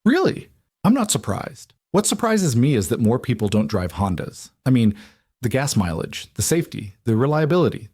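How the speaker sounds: friendly chatty neighbour greeting Alec; cheery Waylon. Acted. Waylon enthusing about Hondas.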